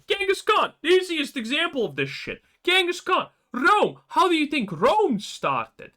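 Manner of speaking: high, loud exasperated rant; heated rant, voice up high; ranting shout. Real, not acted. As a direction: shout it out in frustration. Ranting about empires.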